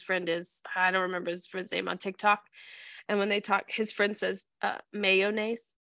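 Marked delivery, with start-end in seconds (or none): 4.9-5.8 "Mayonnaise" said as MAY-oh-nace, evenly; quoted odd "Mayonnaise", three full syllables; imitated pronunciation. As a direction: copy his friend's "Mayonnaise", every syllable sounded. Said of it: "That's how he says mayonnaise".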